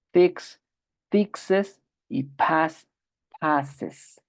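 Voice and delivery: each pair read slowly, base form then the form with es. Shown as a demonstration. Teacher drilling verb pairs for the class, contrasting endings. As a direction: contrast dance with dances, clearly adding es. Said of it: "Lo voy a leer una vez más".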